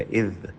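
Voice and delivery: اذ with the tongue out between the teeth on the dhaal. Shown as a demonstration. Teacher showing students the dhaal in اذ. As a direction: say اذ with a clear interdental dhaal. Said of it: "ذال پڑھتے ہوئے زبان باہر نکلے".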